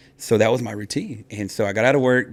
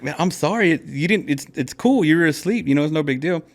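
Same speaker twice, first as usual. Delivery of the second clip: higher-pitched retold reassurance; placating apology; 6 semitones higher than usual. Husband reassuring his embarrassed wife, high placating voice. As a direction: plead lightly, pitched up.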